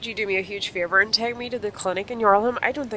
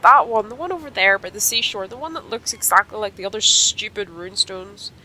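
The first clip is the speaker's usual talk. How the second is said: put-on lightly raised, sore young rider; Sonya voice; 5 semitones higher, 4 dB louder than usual. Sonya explaining her fall to her friend, lightly raised sore voice. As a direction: tell it with a bit of a sorry-for-herself whine.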